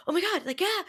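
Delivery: high, loud retold squeal of delight; excited reaction. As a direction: burst out in imitated glee. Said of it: "that was my actual reaction".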